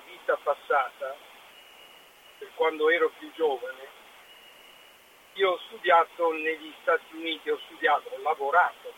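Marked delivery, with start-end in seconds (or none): 5.3-8.9 distant speakerphone sound; talking from across the room on speakerphone. Real, not acted. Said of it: "la sento molto distante".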